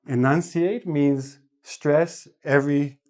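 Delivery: slow, every syllable spelled out; slow and clear. Shown as a demonstration. Teacher showing what enunciating sounds like. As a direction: pronounce each syllable slowly and clearly. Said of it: "He or she will enunciate".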